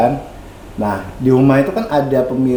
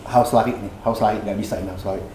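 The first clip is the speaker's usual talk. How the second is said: inner voice; 5 semitones lower, 6 dB quieter, faster than usual. Retold or imitated. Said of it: "dalam hati saya".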